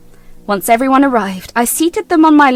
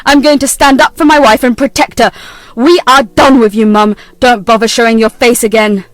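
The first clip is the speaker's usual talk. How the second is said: cold anger; 2 semitones lower, 5 dB louder than usual. Acted. Son disowns mother.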